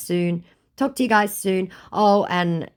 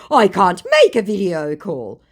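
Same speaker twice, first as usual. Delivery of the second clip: imitating the scammer; 5 semitones higher, 6 dB louder than usual. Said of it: "my Mughal says".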